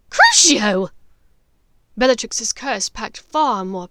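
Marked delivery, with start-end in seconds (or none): 0.1-0.9 loud, furious spell cast; cursing spell. Acted. Bellatrix casting the curse on Hermione, furious. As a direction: hurl the curse.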